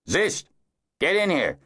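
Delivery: calling out. A narrator's reading. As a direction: shout for Zist to come inside. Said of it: "McCall called".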